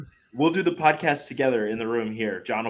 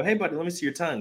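lightly voiced higher dad talk; father to child; 7 semitones higher, faster than usual. Dad checks son's bitten tongue, lightly voiced coaxing. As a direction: coax a little kid, pitched up. Father voicing himself to hurt son.

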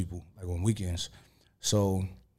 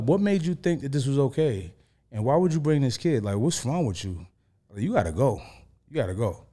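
mock scolding; 5 semitones higher than usual. Scolding the woman who turned up at his door, in mock outrage. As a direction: tell her off again, half acted.

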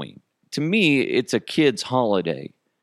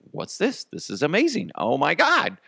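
amazed; 5 semitones higher than usual. Retold or imitated. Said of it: "people are gonna be like".

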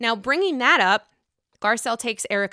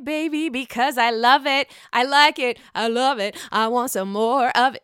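excited, punchy repeated raving; gushing enthusiasm; 4 dB louder than usual. Real, not acted. Host introduces Real Housewives of Dubai, gushing enthusiasm. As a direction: rave with rising relish. Gushing about favourite new show.

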